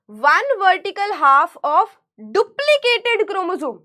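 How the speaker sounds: definition read slowly word by word; slow dictation. Shown as a demonstration. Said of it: "dictating a definition". (परिभाषा धीरे-धीरे लिखवाना)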